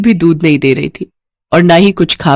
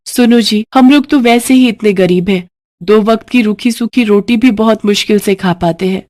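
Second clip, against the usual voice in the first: worried wife; 4 semitones higher than usual. Acted. Wife Shanti worries to husband.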